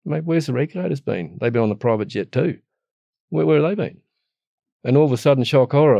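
exasperated outburst. Real, not acted. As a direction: vent the frustration, loud and high. Indignant rant about absent regulators.

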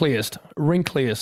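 "Wrinkliest" said cleanly and evenly; easy pronunciation. Shown as a demonstration. Showing co-host it's easy to say, clean "Wrinkliest". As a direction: say "Wrinkliest" smoothly, every syllable in place. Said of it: "it's an easy word to say".

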